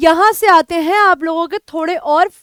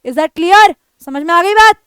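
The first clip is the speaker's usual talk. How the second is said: louder, hard disapproving tone; stern warning; 5 dB louder than usual. Shown as a demonstration. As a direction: warn them sternly. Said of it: "express करते हो disapproval".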